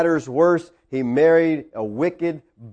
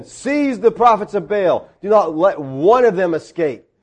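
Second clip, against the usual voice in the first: emphatic, measured command, slightly raised; commanding order; 4 semitones higher than usual. Acted. Elijah to the people about Baal's prophets, firm command. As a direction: give the order with weight. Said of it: "Elijah said to them".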